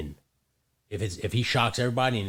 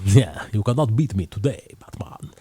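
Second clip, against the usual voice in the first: Bane voice; 4 dB louder than usual. Retold or imitated. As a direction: growl it like Bane. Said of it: "robotic voice Bane".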